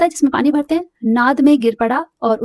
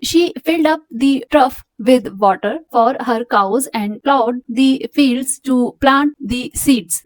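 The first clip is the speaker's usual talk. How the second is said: slow, careful reading to a class; measured textbook reading; slow read-aloud; much slower than usual. Acted. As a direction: read it out slowly for students. Teacher reads story aloud.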